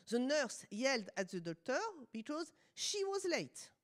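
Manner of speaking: French-accented English. Real, not acted. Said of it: "vous excusez mon accent".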